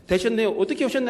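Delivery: mildly kind, softened tone; kindly acted greeting. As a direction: play a gently courteous church member. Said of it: "친절하게 대하면서".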